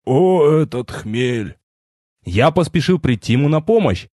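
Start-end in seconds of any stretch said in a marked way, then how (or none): 0.0-1.6 put-on slow, pitiful old man drawl; unsure and pitiful. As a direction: draw it out weakly, unsure. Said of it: "неуверенно и жалко протянул".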